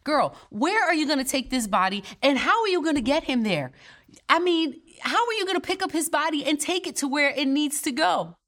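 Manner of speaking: playful mock interrogation, rising in pitch; incredulous sass. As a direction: grill Mary like a friend who can't believe her plan. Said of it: "I have a couple of questions for Mary".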